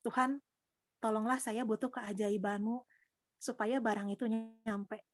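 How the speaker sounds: slow, drawn-out plea to God; retold prayer. Retelling her plea to God for a delivery, slow prayer. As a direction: pray it slowly, as if recalling it. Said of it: "Saya berdoa gitu kan".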